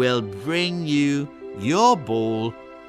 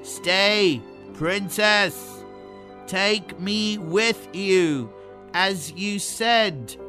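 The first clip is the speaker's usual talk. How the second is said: raised, high storybook call; calling after someone; 6 semitones higher, 3 dB louder than usual. A narrator's reading. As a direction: call out loudly after a runaway princess. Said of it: "called after her".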